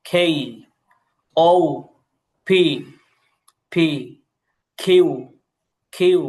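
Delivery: each letter name said slowly, with pauses; teacher running the letter drill. Shown as a demonstration. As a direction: spell out every letter clearly. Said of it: "দেখেন".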